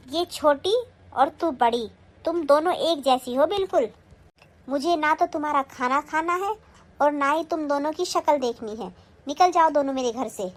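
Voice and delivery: loud, angry order to leave. Acted. Mother-in-law ordering both daughters-in-law out, loud and angry. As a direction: throw them both out of the house.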